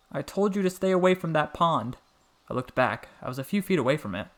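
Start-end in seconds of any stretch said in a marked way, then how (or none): 0.1-2.0 loud, high stern scolding; scolding Nana. A narrator's reading. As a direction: tell him off from across the yard.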